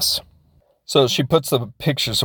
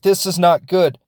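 a sharp mock yell, higher and louder; half-acted alarm at the cut marks; retold scream; 6 semitones higher, 4 dB louder than usual. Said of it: "she starts screaming about it".

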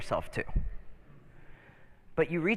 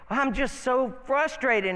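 higher, slow, whiny butterfly; frustrated butterfly; 7 semitones higher, 3 dB louder, slower than usual. Acted. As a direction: complain like a bored little butterfly. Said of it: "he's like".

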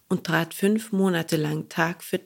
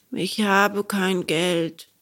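sad; much slower than usual. Acted. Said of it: "ward traurig".

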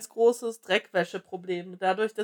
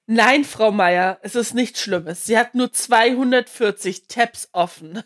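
slow, soothing doctor voice; calm doctor voice; 4 dB louder, slower than usual. Retold or imitated. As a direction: reassure like a doctor. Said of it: "dann kommt er nur". (ruhiger Arztton)

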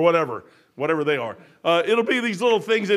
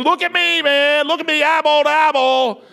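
raised stern command; 8 semitones higher, 8 dB louder than usual. Retold or imitated. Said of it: "I said".

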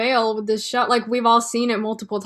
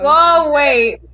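surprised; 4 semitones higher, 9 dB louder than usual. Real, not acted. Reacting to chat message.

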